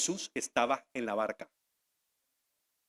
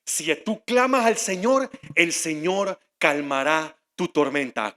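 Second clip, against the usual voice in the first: lightly mocked believer's proclamation, slow after a loud first word; imitating everyone's triumphant reading; imitated churchgoer; 4 dB louder, slower than usual. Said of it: "todo el mundo dice".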